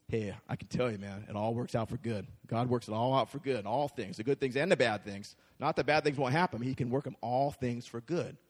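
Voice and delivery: low, soft calm assurance; reassuring Paul. Acted. Paul telling persecuted Christians it works for good, soft and reassuring. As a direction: gently promise it all works out.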